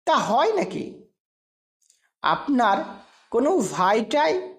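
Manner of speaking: a light chuckle in the voice, half laughing it off. A narrator's reading. Stranger laughing off the narrator's lookalike claim, mildly amused. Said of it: "হাসতে হাসতেই বললেন".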